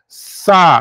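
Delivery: "Saída" broken up, sa, í, da, with pauses; split into syllables. Shown as a demonstration. Teacher separating the next word, "Saída" in three detached syllables. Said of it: "Se você for separar".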